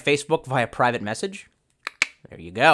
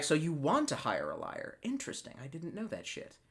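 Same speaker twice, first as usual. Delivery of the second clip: sarcastic quote; 10 dB quieter than usual. Retold or imitated.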